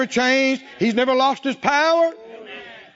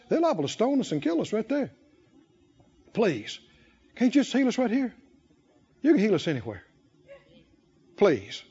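lower, softer whiny pleading of the lepers; mock begging; 4 semitones lower, 4 dB quieter than usual. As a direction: plead like a scared child, hammed up. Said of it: "kept begging Jesus".

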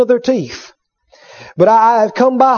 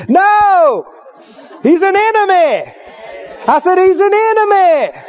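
defiant shout; 7 semitones higher than usual. Real, not acted. Rejecting death shouting.

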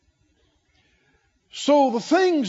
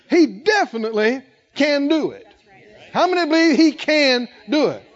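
louder, higher preaching that keeps building; full-force preaching; 6 semitones higher, 4 dB louder than usual. Real, not acted. Pastor firing up the congregation, loud rising preaching.

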